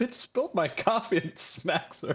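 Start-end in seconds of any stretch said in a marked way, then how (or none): 0.0-1.2 acted incredulous outburst, much higher pitch. Retelling a video where a woman in a restaurant spills a man's coffee, acting out an incredulous outburst. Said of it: "he's like incredulous".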